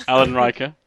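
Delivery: attempted American accent on the name. Shown as a demonstration. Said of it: "What part of America's that, pal?".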